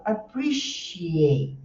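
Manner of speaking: "appreciate" slowly, with a lengthened "sh" for the C; clear SH sound. Shown as a demonstration. Teacher shows students where it falls, clear SH sound. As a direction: hold the "sh" in the middle of "appreciate". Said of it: "é o som sh".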